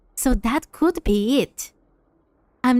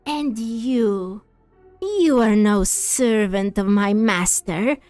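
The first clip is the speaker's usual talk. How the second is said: slow, menacing villain; slower than usual. Acted. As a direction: read it as a cold, threatening boss. Reads villain lines.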